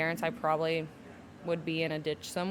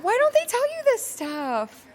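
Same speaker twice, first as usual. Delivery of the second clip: high, loud, laughing outburst; laughing exasperation; 8 dB louder than usual. Real, not acted. To the host about what nobody tells new moms, a high laughing outburst. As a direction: throw the question up in laughing disbelief.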